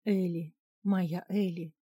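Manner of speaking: husband's tender murmur; understated loving softness; quiet, tender. A narrator's reading. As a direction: say the name fondly, under the breath. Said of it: "тихо проговорил Гарольд".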